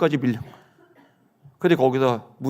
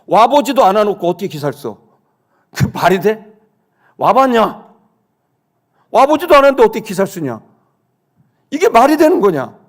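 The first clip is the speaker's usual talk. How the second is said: loud, high, outraged rhetorical questions; exasperated rant rising to a shout; indignant scolding; 6 semitones higher, 5 dB louder than usual. Acted. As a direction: lay into the absent reporter, building in pitch. Indignant rant at absent reporters.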